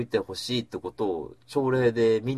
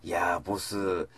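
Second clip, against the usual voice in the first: fawning flattery. Retold or imitated. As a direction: lay the flattery on thick for the boss. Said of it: "これが百八十度変わるわけよ".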